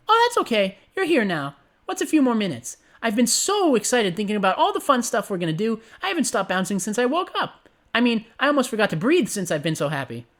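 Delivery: high, gleeful pony voice; gleeful Pinkie. Acted. Pinkie reassures her late friend, high and gleeful. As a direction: beam out every word, high and giddy. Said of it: "giggled and responded, her tone gleefully reassuring".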